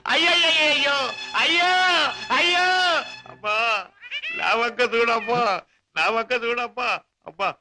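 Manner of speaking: hammed-up mourning, accusing and wailing; mock lament. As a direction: beat the breast to squeeze out money. Fakes grief, blames the driver. (అతిగా నటించిన శోకం)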